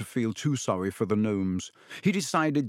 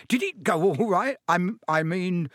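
faltering; 5 semitones higher than usual. Acted. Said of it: "he faltered".

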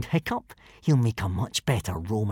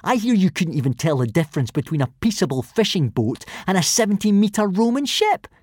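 higher, scornful sing-song sneer; drawled taunt; 7 semitones higher than usual. A narrator's reading. Bully ridiculing Hiccup before the boys, drawling mockingly. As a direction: draw out the ridicule. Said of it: "drawled Snotlout".

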